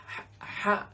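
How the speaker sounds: ha as a breathy unvoiced exhale; breathy Ha demo. Shown as a demonstration. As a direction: blow ha out like fogging your reading glass. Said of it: "imagine the sound you make when you blow on your reading glass".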